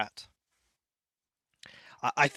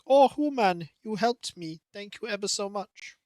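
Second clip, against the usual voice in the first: voicing the cat; 6 semitones higher than usual. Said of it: "Maybe they'll be like".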